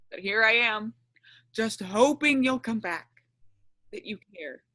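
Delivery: soft, sorrowful confession; sad and quiet. Acted. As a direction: speak softly, heartbroken.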